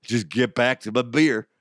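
lightly imitated Irish accent, shrugging it off; casual mock-Irish. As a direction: wave it away as an easygoing Irishman. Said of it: "I could do an Irish accent".

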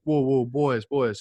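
light North Carolina drawl on the coach's call; a mild North Carolina accent, calling the boys to stop; imitating a coach's North Carolina accent, lightly. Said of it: "I'll do my best, you know, North Carolina accent".

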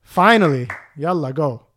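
mildly taunting send-off; retold smug brush-off; dickish dismissal. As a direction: shoo him away to needle him. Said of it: "I'd try to be a dick".

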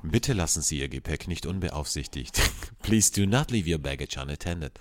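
calm, formal announcer read; airport announcement. Pretend. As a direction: read it like a terminal PA.

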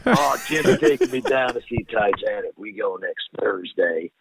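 lightly impersonated actor, toned down from yelling; Bill Paxton. Acted. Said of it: "that's how he kinda sounded".

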